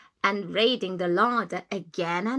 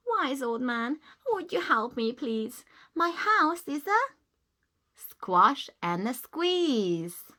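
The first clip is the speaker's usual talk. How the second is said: put-on higher, pleading little old lady; 4 semitones higher than usual. Old lady begging the wise man again, pleading. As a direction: beg for help once more.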